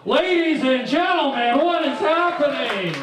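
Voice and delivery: surprised. Acted. Host reacts to the warm-up.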